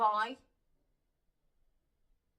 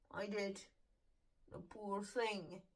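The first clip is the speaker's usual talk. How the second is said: holding back tears; 5 dB quieter than usual. Real, not acted. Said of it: "I'm sorry if I cry".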